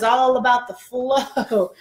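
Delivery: slow, voiced, stretched-out words; drawn out. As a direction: savour it playfully, stretching each word. Playful drawn-out take before whispering it.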